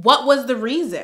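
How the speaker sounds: lightly voiced high squeaky echo; mock voice. Real, not acted. Echoing her own question in a mock high voice. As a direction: parrot it back mockingly. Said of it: "mocking echo of her question".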